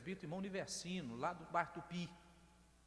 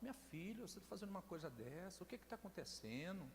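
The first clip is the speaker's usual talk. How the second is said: put-on quiet, tender words to a troubled girl; soft gentle coaxing; 7 dB quieter than usual. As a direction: speak softly, like calming a scared child. Preacher gently talks to the girl.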